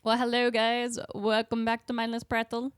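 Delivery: lightly put-on show-opener voice; a hint of a fake accent; funny intro voice. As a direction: greet listeners in a slightly funny voice. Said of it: "That's just a funny voice".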